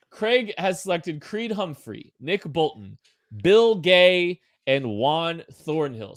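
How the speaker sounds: measured roll call; neutral announcer voice. Pretend. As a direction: announce each name separately, like an official. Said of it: "read them all in a neutral voice".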